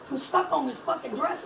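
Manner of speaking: normal talking voice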